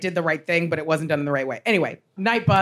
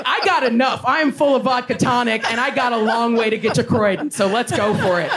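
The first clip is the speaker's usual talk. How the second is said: laughing defiance; 3 semitones higher than usual. Retold or imitated. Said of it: "I'm like".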